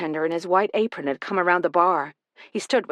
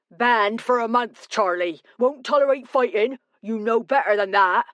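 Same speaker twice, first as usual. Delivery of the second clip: put-on high-pitched publican with a local accent; stern bartender; 5 semitones higher than usual. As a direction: scold a regular firmly. Bartender bans brawler from the pub.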